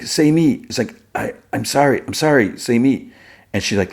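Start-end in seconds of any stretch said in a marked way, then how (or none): 0.0-0.6 high-pitched, plaintive call; lightly acted cry; retold crying. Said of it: "and he cries, he's like". 1.1-3.1 higher-pitched, stammered apology; lightly acted tearful plea; retold crying. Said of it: "and he cries, he's like".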